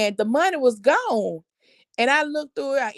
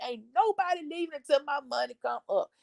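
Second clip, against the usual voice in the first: much softer, deadly serious ultimatum; low firm warning; 2 semitones higher, 7 dB quieter than usual. Retold or imitated. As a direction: drop the volume and mean every word. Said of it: "and I mean it".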